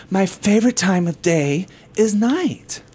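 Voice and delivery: slow, put-on feminine voice; slow put-on feminine voice, asking if it passes; feminine voice attempt. Shown as a demonstration. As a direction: try it slow and feminine, testing it. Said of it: "How can I say that in a very feminine way?".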